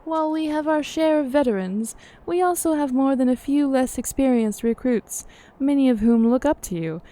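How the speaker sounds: measured, formal fantasy character reading; game dialogue read-aloud. Acted. Character weighing up the myth of Shiva, formal dialogue reading.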